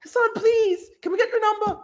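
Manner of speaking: high mock falsetto plea; mocking girls begging the streamer in falsetto; begging fan girls. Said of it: "they're like".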